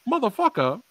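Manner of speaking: high shouted curse; cursing friend. Retold or imitated. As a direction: spit out the curse in mock fury. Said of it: "He was like".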